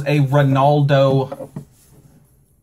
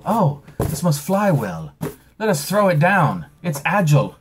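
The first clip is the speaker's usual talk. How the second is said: lightly voiced, higher clueless postal worker; mock postal worker; 5 semitones higher than usual. Imagined postal worker misreading fragile, a bit higher and goofy. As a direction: play a dim mail handler who thinks the box can fly. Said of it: "Maybe they thought it meant agile".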